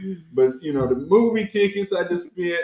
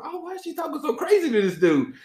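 mock ranting woman; 8 semitones higher than usual. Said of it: "She is going".

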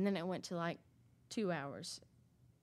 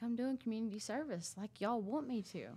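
retold attitude; 5 semitones higher than usual. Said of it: "there's no need in getting an attitude".

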